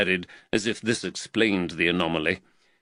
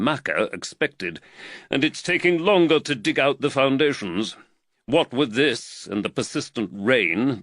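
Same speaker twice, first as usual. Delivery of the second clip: slightly raised, earnest magistrate voice; the worried magistrate, lightly voiced a touch higher; voice of Reed; 3 semitones higher than usual. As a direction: magistrate fretting over costs, lightly voiced.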